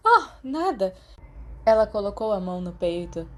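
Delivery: a flustered nurse who just saw a rat; assustada com um rato. A narrator's reading. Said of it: "Madame Pomfrey gritou". (susto agudo e alto, voz de enfermeira nervosa)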